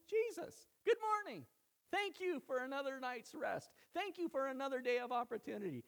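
very high, exuberant greeting to God; joyful morning greeting. Acted. Believer greeting Jesus on waking, joyful and grateful.

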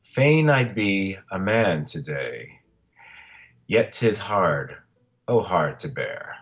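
slow, solemn poem reading; poem recitation. Shown as a demonstration. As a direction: read it slowly like a farewell poem. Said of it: "I wanted to end the podcast with a poem".

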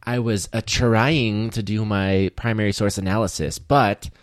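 a hint of a self-justifying teen, drawn out on "trying"; imitated high schooler. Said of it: "They'll be like".

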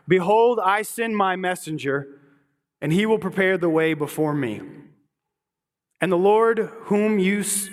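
a lifted, measured reading of scripture. Acted. Preacher reading Malachi to the congregation, measured scripture reading. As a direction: read the prophecy out to the congregation. Reads Malachi passage aloud.

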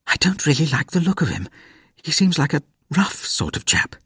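hushed whisper, barely voiced. A narrator's reading. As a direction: lean in and whisper so no one hears. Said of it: "leant forward and whispered".

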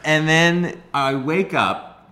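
slow, laughing through the words; cracking up mid-story. Real, not acted. Teller laughing as he recounts waking up.

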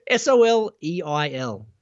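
spelling it out. Shown as a demonstration. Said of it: "can you spell it for me?".

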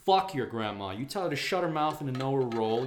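normal talking voice

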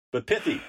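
"pithy" said with a clear th, not "pity". Shown as a demonstration. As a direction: lean on the th in "pithy". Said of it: "It's different than pity".

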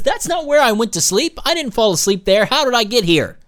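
mild mock panic. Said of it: "start screaming and freak out".

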